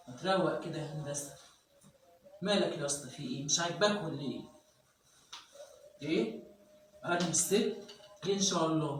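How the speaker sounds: a rough mannish wife swaggering at her husband; manly tough woman. Acted. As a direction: play a tough woman who talks like a guy.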